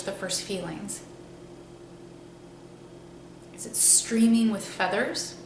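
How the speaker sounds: unhurried guided-meditation voice with long pauses. Acted. Teacher guiding listeners to imagine a staff from the sky, meditative. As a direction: ease them into the imagery, leaving space between phrases.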